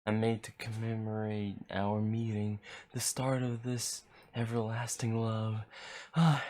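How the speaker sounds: creepy guy voice. Acted. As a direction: savor each word like a stalker. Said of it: "pretty good creepy guy voice".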